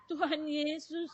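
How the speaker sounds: slow, drawn-out imitated plea; retold tearful calling. Patient cries briefly to Jesus, slow imitated weeping. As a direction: stretch the name as a mimicked cry. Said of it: "Dia nangis cuma berapa lama".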